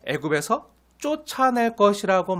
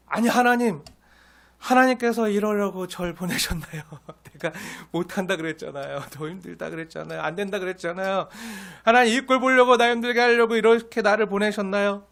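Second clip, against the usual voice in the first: complaining prayer; 2 semitones higher than usual. Retold or imitated. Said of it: "원망 섞인 기도라고도".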